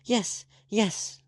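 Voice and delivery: high, loud frightened cry; crying out, shuddering. Acted. Frightened girl begging her friend to obey, shuddering cry. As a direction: cry it out, shaking with fear. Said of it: "the girl cried, shuddering".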